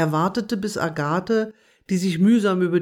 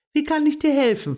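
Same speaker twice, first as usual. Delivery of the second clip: higher, louder eager squirrel; eager to please, keen to help; lightly voiced helpful squirrel; 10 semitones higher, 4 dB louder, faster than usual. A narrator's reading. Squirrel Bubi offers help.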